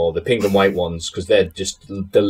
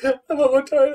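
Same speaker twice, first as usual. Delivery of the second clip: much higher, mumbled mock whine; Bulldog impression. Mocking Bulldog's title shot line, high mumbled imitation. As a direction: mumble the demand like a terrible actor. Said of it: "just the horrible".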